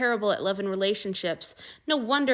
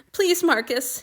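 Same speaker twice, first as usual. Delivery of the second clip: higher and louder, begging; tearful pleading; 7 semitones higher, 6 dB louder, slower than usual. A narrator's reading. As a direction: plead with him through tears. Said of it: "he tried again".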